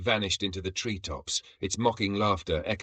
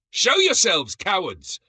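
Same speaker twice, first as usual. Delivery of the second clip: much higher, loud howl; wounded beast howl; 11 semitones higher, 6 dB louder, slower than usual. A narrator's reading. Zargax howling at invisible enemies, loud and high. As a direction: howl it at the jungle. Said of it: "howled like a wounded beast".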